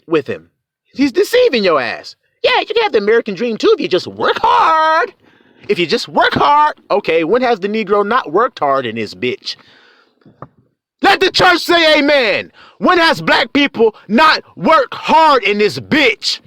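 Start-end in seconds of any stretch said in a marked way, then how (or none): 2.4-6.8 mocking quote. Mocks what the deceiver says. 11.0-16.4 preaching shout. Real, not acted. Preacher challenges the crowd.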